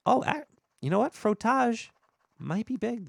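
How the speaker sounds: high, fast, loud excitement; excited. Pretend. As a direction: burst out with delight. Excited discovery.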